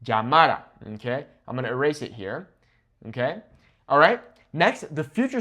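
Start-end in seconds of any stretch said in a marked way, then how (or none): 0.0-0.6 Llamara with the middle syllable punched, -MA-; natural penultimate stress. Shown as a demonstration. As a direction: stress the second-to-last a of Llamara. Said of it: "falls on the second to last vowel".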